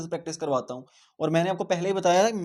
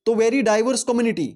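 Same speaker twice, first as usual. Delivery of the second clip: higher, louder, slow stress on very; loud emphatic repeat; 7 semitones higher, 7 dB louder, much slower than usual. Shown as a demonstration. Teacher drilling the class, loud and slow. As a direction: hammer the term home.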